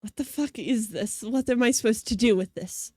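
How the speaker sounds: mock her confusion at the hug; lightly voiced bewildered prosecutor; baffled Von Karma. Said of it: "She's just like".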